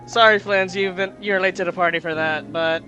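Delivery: loud, bright reply. Acted. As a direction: project it cheerfully. Player loudly reads character lines.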